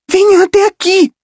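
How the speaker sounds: chamado agudo e urgente de garota; chamando baixo. Acted. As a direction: chame escondida, com urgência. (Rachel chama Percy de trás do tambor, urgente)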